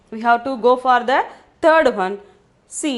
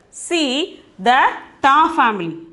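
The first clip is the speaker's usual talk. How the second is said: ordinary delivery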